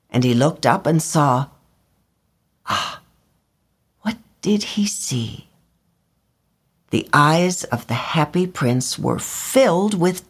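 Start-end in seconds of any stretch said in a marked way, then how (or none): 2.7-5.5 hushed whisper; whispered suspense. A narrator's reading. Narrator teasing listeners in a whisper. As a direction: lean in with a secret. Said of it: "whispered suspense".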